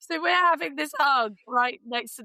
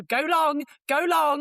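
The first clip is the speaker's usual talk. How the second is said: higher, louder cheering yell; urging the player on, half-shouting; a replayed shout at the screen; mock screaming at the tv; 4 semitones higher, 5 dB louder, slower than usual. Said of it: "screaming at the screen".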